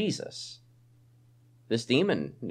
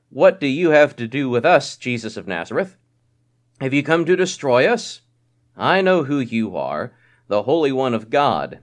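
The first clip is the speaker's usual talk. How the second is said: louder, urgent cry of the possessed man; demon crying out; 6 dB louder than usual. Acted. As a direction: cry it out like the unclean spirit. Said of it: "he cried out".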